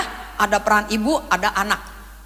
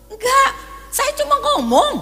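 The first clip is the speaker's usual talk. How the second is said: much higher and louder, half laughing; shrill protest that he's only talking; indignant denial; 13 semitones higher, 5 dB louder, slower than usual. Retold or imitated. Worker insisting he isn't angry. (sangkalan kesal bernada tinggi dan keras)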